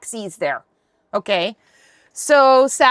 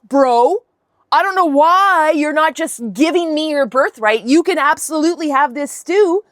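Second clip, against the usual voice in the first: louder, cocky "that's a you problem" tone; a hint of a bratty sibling holding the food; smug taunting brother; 3 semitones higher, 3 dB louder than usual. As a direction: needle him like a smug little brother. Jacob taunting Esau over stew.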